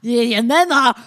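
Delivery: failed Uwe voice. Acted. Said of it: "Ich kann die Uwe-Stimme nicht machen".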